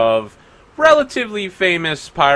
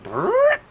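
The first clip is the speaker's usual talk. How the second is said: rolled brrr of a skipping track; record-skip noise. Retold or imitated. Game master mimicking the track dropping out, imitated skipping noise. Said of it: "of, like, a track skipping".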